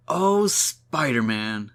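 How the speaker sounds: slow, drawn-out mock swooning; hammed-up lovestruck sigh of a line; smitten swoon. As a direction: gush it like a smitten admirer. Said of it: "misunderstands the scenario and says".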